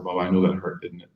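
soothing father. Retold or imitated. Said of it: "I said".

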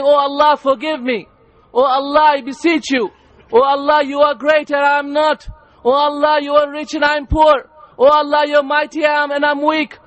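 fervent plea, each address pushed up; acted pilgrim's impassioned prayer; imploring supplication. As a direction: beg forgiveness in an urgent, rhythmic prayer. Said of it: "standing and imploring to his Lord".

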